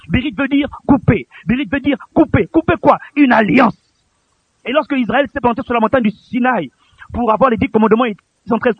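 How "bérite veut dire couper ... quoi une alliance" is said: rising to high, loud declaration; building emphatic repetition. Real, not acted. Preacher hammering home the word's meaning, building. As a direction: drive it higher and louder.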